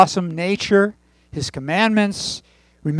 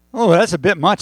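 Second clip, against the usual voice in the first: voicing Irving; 3 semitones higher, 4 dB louder than usual. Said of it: "said Irving".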